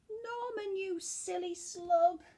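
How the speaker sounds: mock scolding snails. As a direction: playfully tell the slug off. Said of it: "they cried".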